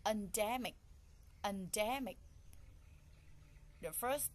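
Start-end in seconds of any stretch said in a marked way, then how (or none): 0.1-2.2 "Endemic" punched on the middle syllable; stress on second syllable. Shown as a demonstration. Teacher repeats "Endemic" to find the stress, second syllable stressed. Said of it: "The second".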